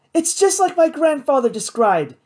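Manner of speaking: high, excited triumph; triumphant. A narrator's reading. Kate sees her grandfather's creature, high triumphant voice. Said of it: "Kate said triumphantly".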